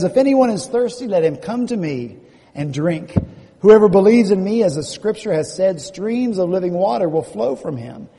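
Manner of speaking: loud public proclamation; Jesus. Acted. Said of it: "Jesus stands in a loud voice and says".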